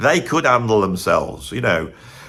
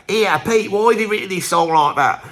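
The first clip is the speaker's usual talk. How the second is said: lightly voiced impression of a singer, higher and challenging; a higher, lightly done singer impression, needling; mock impression of a singer, higher; 7 semitones higher than usual. Singer complaining to his songwriter, mock-challenging and higher. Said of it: "He used to go".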